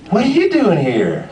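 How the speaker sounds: high Southern woman's question; Southern Holly Hunter accent. Retold or imitated. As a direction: imitate a Southern woman, pitched well up. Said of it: "she had this southern accent and she sounded like Holly Hunter".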